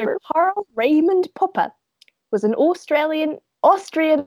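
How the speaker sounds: a light put-on British accent, read like a grand introduction. Reading Popper's bio to her co-host in a British accent. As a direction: announce him in a British accent. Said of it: "Such a good British accent".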